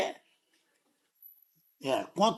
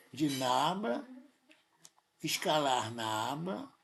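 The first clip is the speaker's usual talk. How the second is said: slow, deliberate; 4 semitones lower, 4 dB quieter, slower than usual. Shown as a demonstration. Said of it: "Olha só que interessante".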